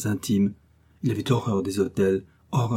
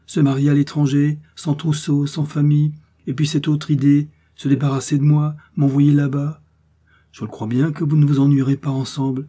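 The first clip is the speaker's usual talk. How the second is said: louder, higher indignant protest; indignant father; 5 semitones higher, 6 dB louder than usual. A narrator's reading. The prince objects to the foreign wedding, indignant and loud. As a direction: rattle off the grievances, affronted.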